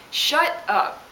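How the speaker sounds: a breathy "Shut up" as an aftershock; muttered repeat. Retold or imitated.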